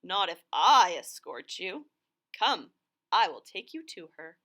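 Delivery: a fox luring the birds along; lightly voiced sly fox; Foxy Loxy's voice. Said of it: "said Foxy Loxy".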